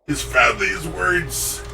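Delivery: Wario voice. Acted. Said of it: "decent Wario-ish".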